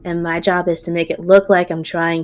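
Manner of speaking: exasperated Minotaur. Acted. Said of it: "He says".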